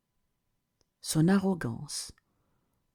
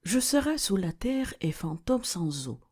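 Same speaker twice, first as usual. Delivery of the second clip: one unbroken, more melodic phrase; flowing verse repeat. Acted. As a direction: say the whole verse without pausing.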